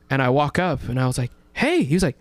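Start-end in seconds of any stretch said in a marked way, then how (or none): 1.5-1.8 much higher, bright fan hello; eager greeting. Retold or imitated. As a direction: greet him like an excited fan. Greeting celebrity, excited.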